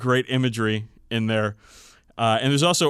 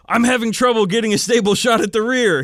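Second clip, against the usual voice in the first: pilot voice; 10 semitones higher, 7 dB louder than usual. Acted. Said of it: "he conveyed".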